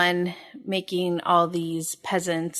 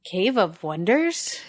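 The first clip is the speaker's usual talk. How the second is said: reading as Aladdin; slower than usual. Acted. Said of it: "I'll be Aladdin".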